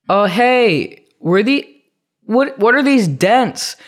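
high, drawn-out imitation of a clerk querying damage; high-pitched questioning, lightly hammed-up; putting on the rental clerk. Woman at return confronts him, acted.

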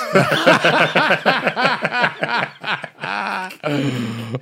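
high, loud burst of laughter. Real, not acted. Laughing fit.

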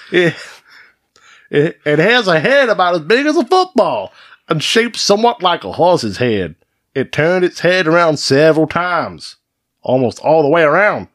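high-pitched put-on eyewitness voice; Edward J. Ward. Host plays a fisherman reporting a monster sighting, high hammed-up voice. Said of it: "an interview from Edward J. Ward".

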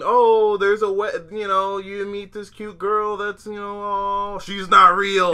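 high, loud, dramatic gush; excited anime fan. Real, not acted. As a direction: gush about the plot twist. Overwrought retelling of plot.

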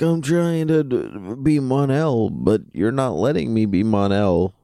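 high, slow petulant whine; whiny Mon-El. Retold or imitated. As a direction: complain like a sulky boyfriend. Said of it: "He's like".

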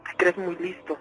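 low, menacing threat; possessing demon voice. Acted. The demon threatens the radio host, menacing. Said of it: "hablaba con voz de hombre".

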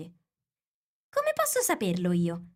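slow, drawn-out bold question; bold retort. A narrator's reading. Alice answers the Queen back, surprised at herself, boldly. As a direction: answer back boldly, taking your time. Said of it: "sorpresa di scoprirsi tanto ardita".

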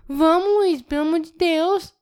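high Mineiro accent, retold plea; sotaque mineiro. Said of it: "eu tava mineira falando lá". (imitando mineira, voz aguda)

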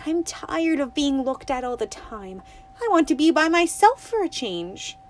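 put-on high, loud girlish complaint; a fed-up little girl; young girl Winnie. Winnie complaining to the toad, high girlish voice.

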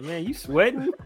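a touch of mock alarm; concerned friend imitation. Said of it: "He's like".

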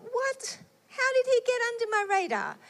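high, fast startled thought; surprised inner thought. Retold or imitated. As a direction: catch yourself off guard.

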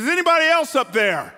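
high, loud and quick; man on the branch calling loudly to anyone else; panicked shout. Acted. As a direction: blurt it out in a panic.

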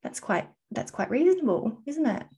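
high, light mock-calm voice; calm reasonable self. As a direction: voice a relaxed, reasonable take. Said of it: "you can look at the exact same information and go".

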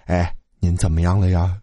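low, mildly caring question; concerned. A narrator's reading. Student checking on the poisoned woman, mildly concerned. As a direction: check on them gently, pitched low. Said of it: "老四关心地问道".

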